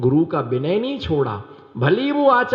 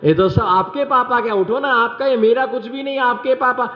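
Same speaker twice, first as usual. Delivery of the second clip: flustered wife backtracking; 3 semitones higher than usual. Retold or imitated. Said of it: "पत्नी बोलती".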